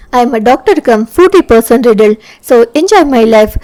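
very slow, drawn-out teasing English line; slow playful boast. Acted. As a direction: stretch every word lazily to tease her.

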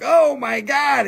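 slow mock astonishment; mock gasp. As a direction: play the crowd's big surprise. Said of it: "Everybody's gonna be like".

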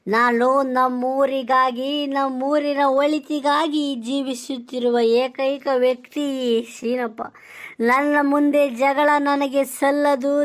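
lightly hammed stage-drama plea, slow at first; a hint of a theatrical devoted son lamenting; mock mythological son. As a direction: plead with mother like an old play hero. Son again in mock-classical style.

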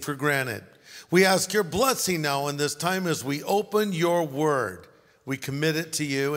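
earnest, measured prayer with pauses. Acted. Pastor praying before the Thanksgiving sermon, earnest and measured.

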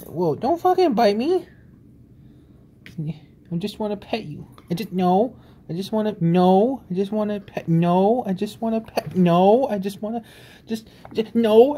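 high yelping protests of no; startled protest. Real, not acted. Owner being bitten by his pet, high startled protests. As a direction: pull back your hand, voice shooting up.

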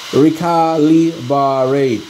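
Recalibrate stretched out slowly, each syllable clear; slow careful syllables. Shown as a demonstration. Hobbyist repeating the word for viewers, slow and careful. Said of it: "That's the word".

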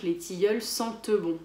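sentent said as sen-te before bon. Shown as a demonstration. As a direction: sound the ending of sentent as e. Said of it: "on le prononce comme un E".

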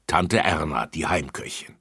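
usual speaking voice

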